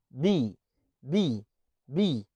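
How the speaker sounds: unaspirated B; plain B with no air. Shown as a demonstration. Teacher demonstrating unaspirated B. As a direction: say بي with no puff of air, lips closed. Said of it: "البي انت ما بتطلعش فيه هوا".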